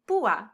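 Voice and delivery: PÚ-a, two syllables with stressed ú; vowels pronounced separately. Shown as a demonstration. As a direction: break "púa" into two vowels, weight on the ú. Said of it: "each vowel to be pronounced separately".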